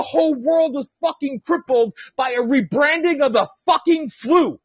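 indignant, high-pitched outburst at normal pace; outraged. Real, not acted. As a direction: spit out "fucking flu" in one angry run. Outrage, first take before repeat.

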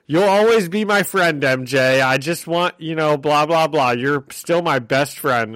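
glib, put-on reassurance; mocking imitation. Mocking his empty friendship pledge.

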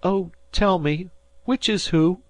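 half sobbing. A narrator's reading. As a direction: ask through half-sobs, overwhelmed. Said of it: "half sobbing".

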